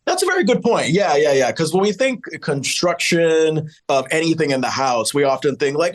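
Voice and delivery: usual speaking voice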